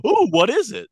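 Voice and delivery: mock excited question; mock curiosity. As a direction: gush with fake curiosity. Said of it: "I was waiting for you to be like".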